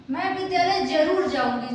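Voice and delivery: जरूर pressed hard, insisting; stubborn emphasis. Shown as a demonstration. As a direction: say it as if refusing to budge, stress जरूर. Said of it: "जिद पकड़ के बैठ गई मैं".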